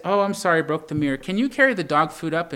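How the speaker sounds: casual, light apology that moves right on; breezy offhand tone. Retold or imitated. Wife shrugging off the broken mirror, breezy and offhand. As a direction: toss off the apology like nothing happened. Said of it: "Just like that, in that tone".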